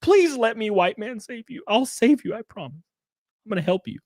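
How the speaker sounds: high, eager pleading, hammed up; mock savior pleading. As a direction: beg to save her, mockingly. Voicing the savior character.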